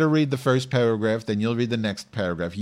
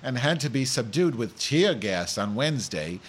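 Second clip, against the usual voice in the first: news anchor with a comic speech impediment; lightly hammed-up newsreader; mock news read; 4 semitones higher than usual. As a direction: read the headlines with r and l softened to w. Reads news as Madge.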